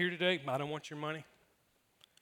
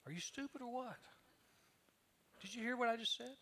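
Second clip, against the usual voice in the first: incredulous; 6 semitones higher, 11 dB quieter than usual. Retold or imitated. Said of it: "Jesus was like".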